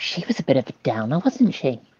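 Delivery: confiding, discreet, hushed whisper. Quietly nudging another player's character and commenting in character: discreet whisper. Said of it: "discreetly whisper to him".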